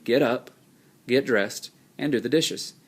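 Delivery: a clear pause after "get up" and after "get dressed"; teacher reading the list slowly, pausing at each comma; pauses between items. Shown as a demonstration. Teacher shows students the comma pauses, slowly and deliberately. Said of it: "you can hear the pause in my speech".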